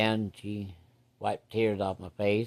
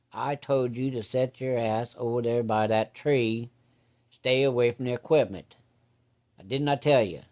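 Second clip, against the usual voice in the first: louder, rising angry scolding from a father; angry dad yelling; 2 semitones higher, 3 dB louder than usual. Retold or imitated. Dad yelling at his son for going near the equipment, angry. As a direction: bark it like a furious farm dad.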